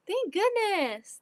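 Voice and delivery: relieved. Real, not acted. Repeated relief.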